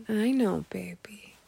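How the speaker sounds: soft comforting whisper. Acted. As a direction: breathe it gently.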